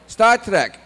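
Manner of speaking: high, loud Scottish mishearing; Scottish father. Retold or imitated. Dad mishearing son's show, loud Scottish. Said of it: "my parents have a very thick Scottish accent".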